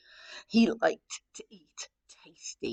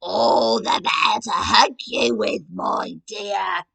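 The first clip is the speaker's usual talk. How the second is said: louder, menacing wolf voice fading to a hiss; growled; 7 dB louder, slower than usual. Acted. Wolf teasing Red, growling then whispering. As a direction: growl it, then breathe the end. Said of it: "growled the wolf".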